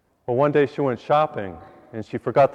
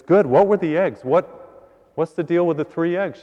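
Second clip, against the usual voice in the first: higher, insistent questioning; demanding husband; 4 semitones higher than usual. Acted. Husband asks wife about the eggs in the shoebox, demanding. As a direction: press for an answer, pitched up.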